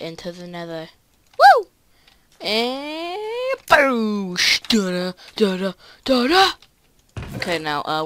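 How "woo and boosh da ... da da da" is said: high, loud whoop and ta-da; triumphant fanfare. Real, not acted. Player lighting the portal to the nether, triumphant fanfare. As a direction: celebrate with big sung-out sound effects.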